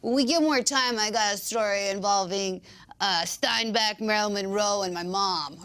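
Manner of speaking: mock shout across the set; imitated shout. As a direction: call it out like swapping old stories. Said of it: "shouted over to Nolte".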